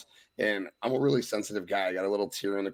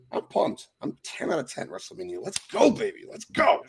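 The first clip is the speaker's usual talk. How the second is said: excited hype; 8 semitones higher than usual. Real, not acted. Hyping WrestleMania.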